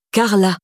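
"Carla" with each syllable clearly sounded; "Carla" repeated distinctly; carefully articulated. A narrator's reading. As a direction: articulate "Carla" for a confused listener. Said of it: "répéta Théo en articulant".

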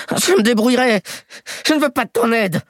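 put-on high, stubborn old crook's voice; proud old man. Old thief refusing the boy's help, high and stubborn.

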